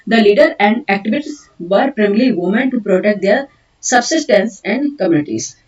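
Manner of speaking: slow, deliberate dictation of English notes. Acted. Teacher dictating notes to students, slow and deliberate. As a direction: dictate each word so students can write.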